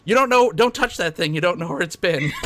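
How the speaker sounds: high-pitched imitation of a panicked warning; comic fussing alarm; mock alarm. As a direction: warn them off, voice jumping up. Acting out Willow's alarm at baby.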